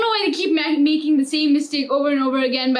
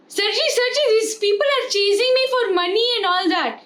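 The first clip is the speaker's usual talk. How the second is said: panicked driver; 5 semitones higher than usual. Retold or imitated. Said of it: "he was like".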